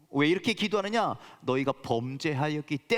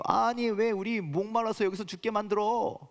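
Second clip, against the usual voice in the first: complaining; 4 semitones higher than usual. Retold or imitated. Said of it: "그렇게 얘기했죠".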